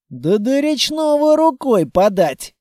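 a touch of outrage; indignant protest. A narrator's reading. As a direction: object as if it were absurd. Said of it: "возмутился Петрович".

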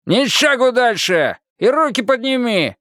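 high, slow menacing order; threatening watchman. A narrator's reading. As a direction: hold him at gunpoint with your voice. Watchman holds him at gunpoint. (угрожающий сторож с ружьём)

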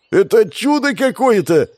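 high, loud amazed cry; joyful shout. Acted. The ratnik cries out joyfully at the priest's survival. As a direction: shout it like a miracle happened. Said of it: "радостно проорал ратник".

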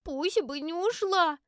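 put-on high, slow child's voice, stubborn; a tearful girl defending her lost pet; insistent little girl. A narrator's reading. (упрямый детский голос, высоко и медленно)

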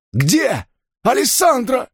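high, harsh demanding voice, drawn out; furious Enso. Acted. Gangster interrogating the dazed hero, high furious demand. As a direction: shake the answer out of him. Enso shakes the beaten narrator.

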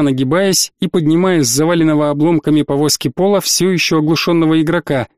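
plain reading voice

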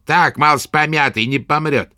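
high, slow crone's sneer; sneering old witch. A narrator's reading. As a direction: twist the mouth and scoff. Witch speaks.

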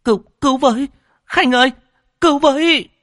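high, loud cry for help; screaming while running. A narrator's reading. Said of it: "Vừa chạy vừa hét toáng lên".

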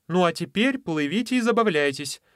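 high, bright lady voice; high sea lady voice. Acted. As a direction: send the dogs off to play. Lady sends dogs to play.

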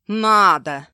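loud gloating retort. Acted. Husband mocks his wife's plea, loud gloating answer. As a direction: throw her word back at her.

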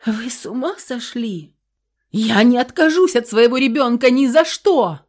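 loud, high outraged cry; shouting. A narrator's reading. Karina refuses to give up baby, shouting. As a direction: refuse at the top of her voice. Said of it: "закричала Карина".

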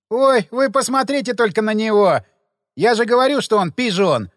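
loud teasing jeer at the dandy; mocking exclamation. A narrator's reading. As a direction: ridicule him loudly.

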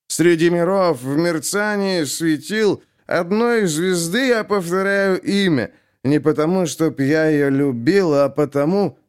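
put-on slow, high drunken recital with feeling; expressive recital. A narrator's reading. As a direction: read it as if it's his secret meaning. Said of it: "с выражением". (читает с выражением, вкладывая смысл)

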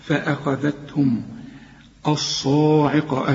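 فأخذتهم with thin 'fa-a', then heavy sad in الصاعقة; slow recitation, light فأخذتهم and full dark الصاعقة; light hamza. Shown as a demonstration. Teacher models the verse, light hamza. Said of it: "الهمزة مرققة دائمًا".

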